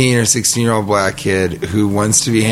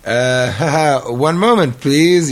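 nervous host voice; 4 semitones higher, slower than usual. Retold or imitated. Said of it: "And I'm like".

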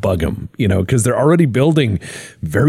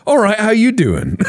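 much higher, cracking mock greeting; imitating Chippy; 12 semitones higher than usual. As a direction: chirp it out through a laugh. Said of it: "And he goes".

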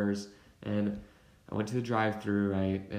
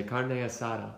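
put-on "Carne asada" with a light Spanish accent; slight put-on Spanish accent on "Carne asada". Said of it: "I also start to talk in that accent".

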